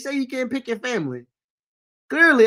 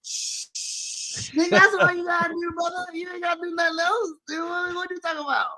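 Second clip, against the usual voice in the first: pitched way up in disbelief; exasperated high-pitched protest; incredulous outburst; 8 semitones higher than usual. Real, not acted. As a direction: shout it like it's obvious. Heated mock argument over Storm.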